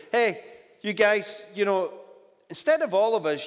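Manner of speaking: lightly voiced giant calling across the field; Goliath's taunt. Preacher voicing Goliath taunting Israelites, mild mock shout. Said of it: "because I'm Goliath".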